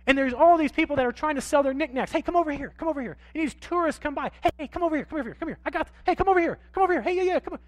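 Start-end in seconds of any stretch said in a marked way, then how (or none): 2.1-3.2 lightly voiced vendor calling; a hint of a pushy hawker beckoning; mock market vendor. Pastor imitating Jamaican booth sellers, mock calling. 4.4-7.6 lightly voiced vendor calling; a hint of a pushy hawker beckoning; mock market vendor. Pastor imitating Jamaican booth sellers, mock calling.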